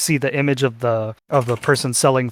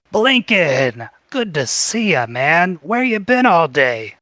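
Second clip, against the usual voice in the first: bird voice; 3 semitones higher, slower than usual. Acted.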